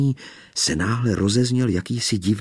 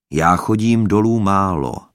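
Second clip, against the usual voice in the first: smiling; 6 dB louder than usual. A narrator's reading. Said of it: "usmál se ten hlas".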